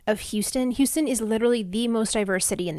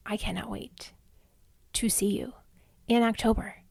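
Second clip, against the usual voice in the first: soft intimate whisper; 4 dB quieter than usual. Real, not acted. Intimate anticipation to listeners.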